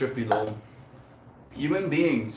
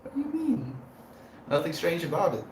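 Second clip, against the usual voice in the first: hushed, near-whispered mock agreement; feigned nonchalance; 7 semitones higher, 5 dB quieter than usual. Streamer pretending nothing is strange, quietly nonchalant. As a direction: brush it off under your breath. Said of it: "pretend like that's exactly the way".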